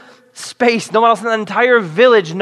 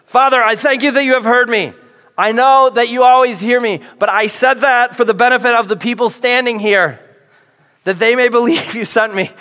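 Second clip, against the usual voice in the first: a raised, showy prayer voice, higher and louder; praying really loud; 5 semitones higher, 3 dB louder than usual. Retold or imitated. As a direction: pray loud so the people standing here hear it. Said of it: "pray really loud".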